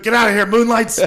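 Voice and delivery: high, loud mock yell at the Moonlights; mock shout. Friend imitating him chasing the Moonlights, mock shout. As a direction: yell them out of the room, hammed up. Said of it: "You're like".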